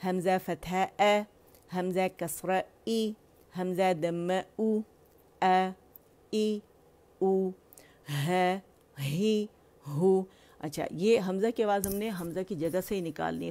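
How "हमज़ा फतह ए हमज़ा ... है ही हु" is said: short vowels sounded one by one; vowel drill. Shown as a demonstration. Teacher modelling vowels for students, clear drill. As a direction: model each harakah clearly. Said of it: "आवाज़ ऊपर जा रही है, नीचे जा रही है".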